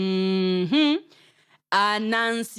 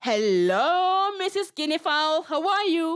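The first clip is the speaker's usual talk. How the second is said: sly spider greeting; 8 semitones higher than usual. Acted. Anansi jumps out, greets.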